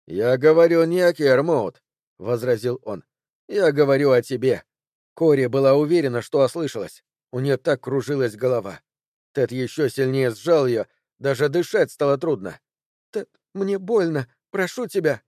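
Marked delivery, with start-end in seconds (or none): 0.1-4.6 louder, hard menace; menacing. Acted. Ted turning on Cori, louder with menace. 13.1-15.2 higher, pleading plea; begging in pain. Acted. Cori begging Ted who hurts her, higher.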